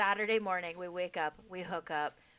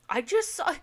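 retold ugly crying; 9 semitones higher, 9 dB louder than usual. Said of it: "I'm just full on ugly crying".

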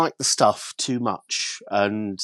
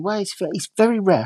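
mock sighing dealer; 7 semitones higher, faster than usual. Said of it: "he sighed and he mumbled a bit".

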